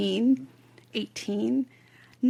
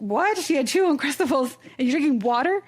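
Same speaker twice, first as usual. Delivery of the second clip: shocked disbelief; 5 semitones higher, 6 dB louder than usual. Retold or imitated. Friend reacts in disbelief.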